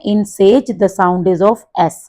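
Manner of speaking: reading the instruction out slowly and clearly; teacher reads the book line aloud to the class, slow and careful; slow textbook read. Acted. Class ko instruction dheere dheere padhkar sunati teacher, saaf aur dheemi.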